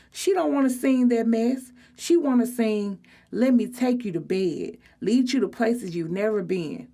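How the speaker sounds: neck-rolling sass; sassy mockery. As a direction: tease her song choice with attitude. Sydney mocking, neck rolled.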